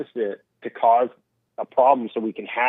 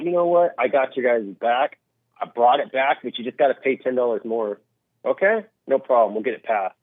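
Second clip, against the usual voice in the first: mock politician. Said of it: "some Republican or some Democrat will come and be like".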